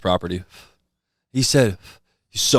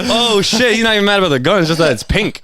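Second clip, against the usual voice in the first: much higher, louder stunned disbelief; shocked; 12 semitones higher, 5 dB louder than usual. Retold or imitated. Kids caught by the farmer, stunned high and loud. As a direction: squeal the shock out. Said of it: "We all just sit there like".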